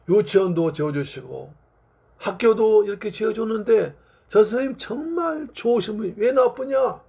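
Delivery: mildly exasperated defence, pitch climbing at the end; indignant protest. Acted. Adults defending the missionary to a crying child, indignant. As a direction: protest in disbelief, voice rising.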